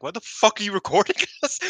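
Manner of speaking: high, loud irritated outburst with a laugh; imitating teammates fed up with the camera; mock annoyed snap. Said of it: "they're like".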